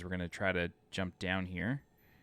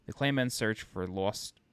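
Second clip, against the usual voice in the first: slipped-in Long Island accent; New York vowels on lost; 3 semitones higher, 3 dB louder, slower than usual. Real, not acted. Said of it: "said that like a real Long Islander".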